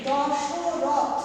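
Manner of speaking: দশরথ said slowly with the final অ dropped, ending on থ; hasanta pronunciation. Shown as a demonstration. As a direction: stretch দশরথ out and close on a bare থ. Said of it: "সেটাকে আমরা উচ্চারণ করি". (দশরথ হসন্ত দিয়ে ধীরে উচ্চারণ)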